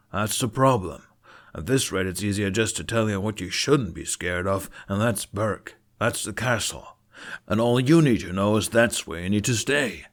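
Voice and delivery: firm chieftain laying down the law; a father fencing his son in; stern Stoic. Acted.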